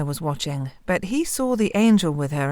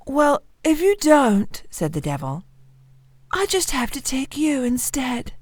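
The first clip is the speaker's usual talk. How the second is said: bully the miller like a furious devil; angry devil; 8 semitones higher than usual. Acted.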